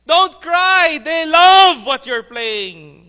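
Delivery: very high, loud crowd calling out. Acted. Audience calling to the crying violinist, high and loud. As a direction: shout up to the weeping violinist.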